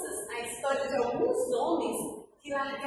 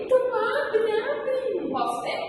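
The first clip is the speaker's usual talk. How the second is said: eager; 7 semitones higher, 4 dB louder than usual. Acted. Kids eager to open invitation.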